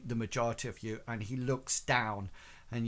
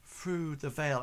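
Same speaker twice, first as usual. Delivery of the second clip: a touch higher, halting, piecing memories together; halting recollection; 3 semitones higher than usual. Acted. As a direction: pause often as if recalling the order. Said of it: "trying to piece together what happened".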